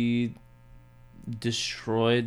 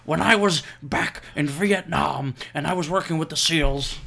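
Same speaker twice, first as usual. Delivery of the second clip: mock Jesse Ventura; 4 semitones higher, 4 dB louder than usual. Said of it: "I will be Jesse the Body Ventura".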